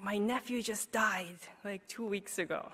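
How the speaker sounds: quoting grief softly, then almost whispering; retold grief. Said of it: "And she's like".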